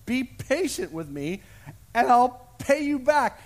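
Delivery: a servant begging for mercy. Acted. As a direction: plead on your knees. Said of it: "fell to his knees and begged him".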